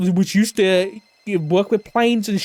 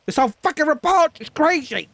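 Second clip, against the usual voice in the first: exasperated; 8 semitones higher than usual. Real, not acted. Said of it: "too much shit happening in my brain".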